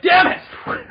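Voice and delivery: very high, loud curse; mock furious yell. Superman suddenly let down, mock furious yell. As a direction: scream it in hammed-up frustration. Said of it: "He's like".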